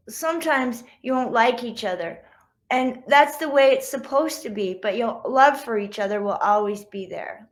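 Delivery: put-on gentle read-aloud to children; story narration. A narrator's reading. Author reading to schoolkids, gentle read-aloud. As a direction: read it like a picture book.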